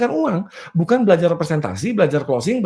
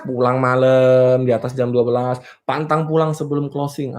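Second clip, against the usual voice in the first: mock hustler; 6 semitones lower than usual. Mocks the hard-working hustler's boast.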